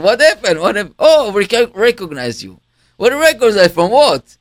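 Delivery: high, loud overlapping exclamations; excited chatter. Retold or imitated. Staff crowding the speaker, high and loud excitement. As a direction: tumble out amazed questions.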